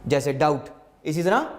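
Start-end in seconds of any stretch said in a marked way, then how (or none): 0.3-0.7 डाउट with no b in it; डाउट ending straight on t; silent b. Shown as a demonstration. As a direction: say doubt as डाउट, b unspoken. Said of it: "बी की आवाज़ silent हो जाती है".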